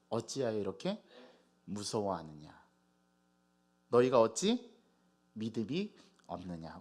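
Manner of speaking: measured reproach, falling low at the ends; restrained rebuke. Acted. Jesus's words to disciples quoted back, restrained grave rebuke. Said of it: "야단을 치셨거든요".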